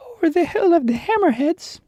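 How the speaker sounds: the Lion's voice. Acted. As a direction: play the lion as a gentle storybook beast. Lion voiced in story.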